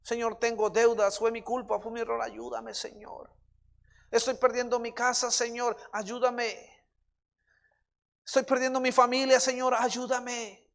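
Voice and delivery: insistent plea, rising with each line; earnest, repeated supplication; pleading prayer. Real, not acted. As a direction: beg God for help, stretching the cry.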